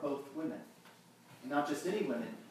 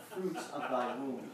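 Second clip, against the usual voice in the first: slow, lofty mock-pompous churchman with a laugh; mock theologian; 2 semitones lower, slower than usual. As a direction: lightly ham up a stuffy scholar. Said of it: "a man who is a theologian would say something like".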